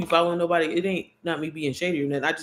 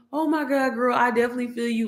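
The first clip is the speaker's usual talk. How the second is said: friendly reply; 6 semitones higher than usual. Retold or imitated. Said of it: "She's like".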